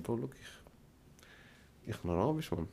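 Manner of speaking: slow, breathy aside to the banker; mock whisper. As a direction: whisper it like a secret deal. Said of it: "nachher sagen". (zur Bank geflüstert, sehr langsam)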